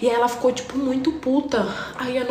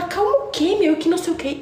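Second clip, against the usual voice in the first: mock angry retort; 9 semitones higher than usual. Girl snapping back.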